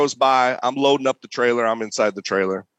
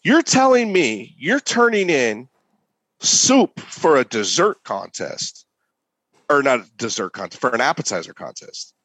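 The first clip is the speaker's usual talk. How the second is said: retold rant. Contest critic messages the cook about the soup, retold rant. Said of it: "this person goes off on me".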